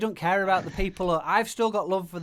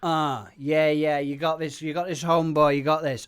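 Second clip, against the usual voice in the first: loud hype-man cheering; hype encouragement; 5 dB louder than usual. Acted. Hype man cheering on his rapper, loud and eager.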